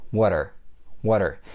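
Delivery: "Water", what and are as one word; blended words. Shown as a demonstration. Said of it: "the word are is blended together with".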